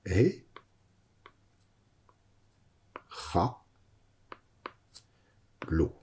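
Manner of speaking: "He, cha, lo" one syllable at a time with long pauses; spelled slowly. Shown as a demonstration. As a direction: dictate "He, cha, lo" slowly while writing. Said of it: "Comme ceci". (épelé lentement, syllabe par syllabe)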